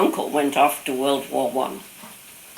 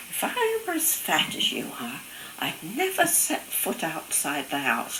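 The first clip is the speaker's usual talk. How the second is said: lightly mocking, pitched up at the start; taunting big brother; 2 semitones higher, 3 dB quieter, slower than usual. Older brother tormenting her on coming home from war, mock taunt. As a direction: imitate a brother teasing, slowing down after. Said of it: "torture her in Big Brother fashion".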